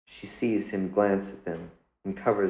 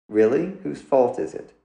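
higher, louder sharp retort; sharp challenge; 5 semitones higher, 4 dB louder than usual. Acted. Mother snapping back at her son, sharp and louder. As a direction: throw the blame back at him.

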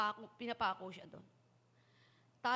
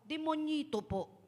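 put-on child; 4 semitones higher, 3 dB louder, slower than usual. Child answers again.

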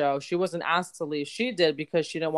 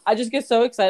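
smiling excitement; 3 semitones lower, faster than usual. Real, not acted. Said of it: "hear the smile in my voice".

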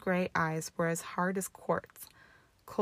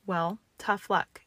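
snapped; 3 dB louder, slower than usual. Acted. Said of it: "she snapped".

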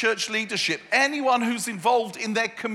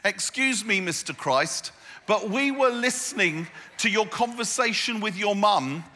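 cheeky servant. Pretend. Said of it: "I would have probably said something like this".

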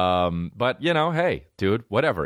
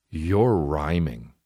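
slow mocking drawl; 5 semitones lower, much slower than usual. Shown as a demonstration. Mocking the grown man who raps, slow. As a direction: stretch it out slowly, mocking.

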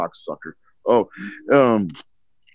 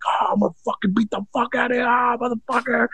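mock yelling; 12 semitones higher, 3 dB quieter than usual. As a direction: pretend to beat someone up at the top of the voice. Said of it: "I started yelling like".

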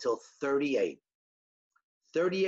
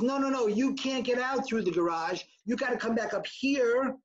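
higher insistent call, no, no, no; mild retold yell; 6 semitones higher than usual. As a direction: warn them off, raised voice. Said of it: "the guy yells back".

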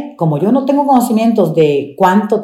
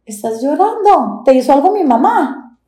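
put-on a higher, childlike voice asking if she's crying; worried little boy; 8 semitones higher than usual. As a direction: play the small son, concerned. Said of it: "y me volteaba". (niño preocupado con voz más aguda)

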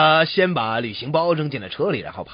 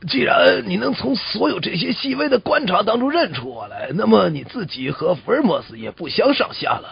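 raised-pitch astonishment, easing off; amazed writer; 5 semitones higher than usual. Acted. Writer amazed at the coachman's deductions, acted astonishment. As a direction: marvel at it, starting high. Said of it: "柯南道尔大吃一惊说".

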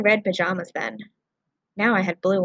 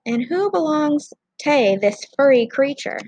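Scottish rescuer; 6 semitones higher, 4 dB louder than usual. Acted. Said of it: "Stan's a stubborn Scotsman".

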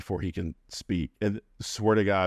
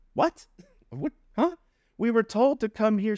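mock confusion. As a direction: play it up as totally thrown. Retold confused reaction.

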